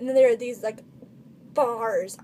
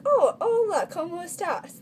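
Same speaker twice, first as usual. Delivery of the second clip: higher, louder bright reply; eager reply in Spanish; 6 semitones higher, 3 dB louder than usual. Retold or imitated. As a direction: overeager tourist reply, oh hola. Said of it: "David and I were like".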